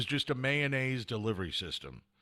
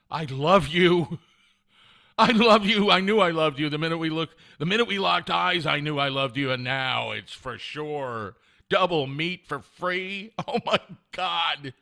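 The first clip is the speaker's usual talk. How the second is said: loud, high, hammed-up adoration; gushing love declaration; 3 semitones higher, 7 dB louder than usual. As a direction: burst out in mock lovestruck ecstasy. Overjoyed at free double meat.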